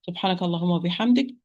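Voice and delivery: rapid recited closing dua; closing prayer. Acted. Closing supplication.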